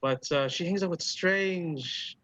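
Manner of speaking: lightly voiced old hostess, slowing at the end; musing elderly dwarf barkeep. Dwarf bartender telling the musician about a regular, musing. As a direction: recall a regular thoughtfully in a put-on voice.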